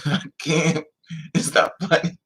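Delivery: laughing through the words; real laughing. Real, not acted. Mother recalling her son's prank, laughing helplessly. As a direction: crack up while talking.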